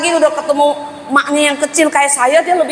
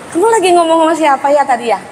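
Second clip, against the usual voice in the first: gentle reconfirming; faster than usual. Retold or imitated. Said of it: "tinggal kita reconfirm saja".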